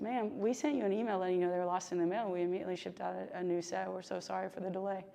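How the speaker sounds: sweetly apologize, hurrying along quietly. Retold or imitated. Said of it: "the woman very sweetly goes".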